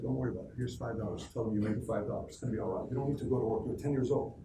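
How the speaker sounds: low, soft motherly comfort; lightly voiced mom, hushed and easy; reassuring mom. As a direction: gently soothe a worried child. Mom voiced reassuring her young son.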